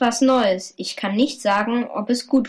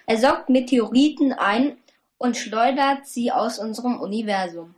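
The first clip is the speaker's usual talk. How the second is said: chipper 1950s ad. Acted. Kids read an ad.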